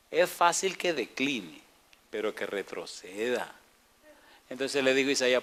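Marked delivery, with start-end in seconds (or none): 0.1-3.5 cheeky demand. Retold or imitated. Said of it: "oye lo que dijo ese abusador".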